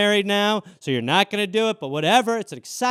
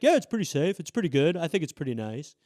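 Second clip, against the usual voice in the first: half-hearted endorsement; 4 semitones lower than usual. Retold or imitated. President on vaccine safety, imitated as lukewarm and offhand. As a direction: shrug it off, fading away. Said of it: "what works with Trump supporters is strong rhetoric".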